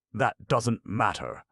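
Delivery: high, slow, cold brush-off; cold dismissal. Acted. Aunt dismissing the stranger's excuse, slow and cold. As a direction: dismiss it coolly and slowly. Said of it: "said Aunt Susan coldly".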